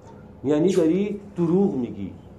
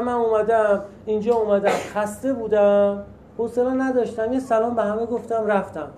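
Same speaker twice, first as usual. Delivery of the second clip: higher-pitched, listing each step; acted innocent account; 6 semitones higher than usual. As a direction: play someone innocently explaining themselves. Acts out innocent tired newcomer's account.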